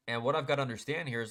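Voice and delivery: ordinary talk, nothing marked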